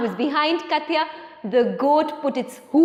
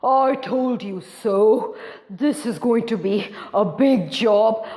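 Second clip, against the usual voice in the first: put-on grumpy old man; 3 semitones lower than usual. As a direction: scold them like a gruff grandpa. Boris scolds family.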